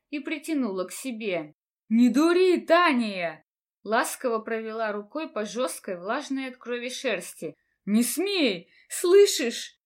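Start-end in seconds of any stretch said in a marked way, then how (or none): 1.9-3.4 loud, desperate plea over the dying beast; anguished shout. A narrator's reading. Heroine pleads over dying beast. 7.8-9.8 loud and high, breaking plea; desperate cry. A narrator's reading. Heroine begs dying friend.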